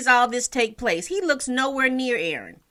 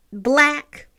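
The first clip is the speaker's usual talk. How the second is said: BLACK set apart after a long pause, louder and higher; air quotes; 4 semitones higher, 5 dB louder than usual. Real, not acted. Reviewer hedges a loaded word on the character, BLACK set apart in air quotes. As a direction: say BLACK on its own as if in quotation marks. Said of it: "I'm putting that in quotations".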